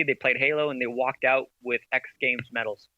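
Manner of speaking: talking with a mint in mouth; words around a mint; mouth full. Real, not acted. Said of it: "Sorry, I have a mint in my mouth".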